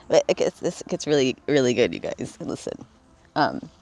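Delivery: talking around a cigarette; words while smoking, cigarette in lips; cigarette in mouth. Real, not acted. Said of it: "I'm smoking a cigarette right now".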